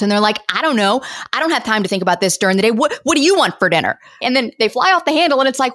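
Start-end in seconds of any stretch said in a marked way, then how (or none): 0.5-4.0 fast, irritated snap at the spouse; snapping back. Retold or imitated. Tired spouse snapping at partner about dinner, irritated. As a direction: rattle it off, annoyed and defensive. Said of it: "they just snap back at their spouse".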